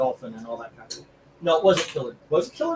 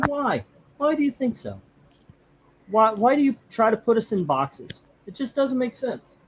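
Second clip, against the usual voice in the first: mock retort; 7 semitones higher than usual. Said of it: "I say".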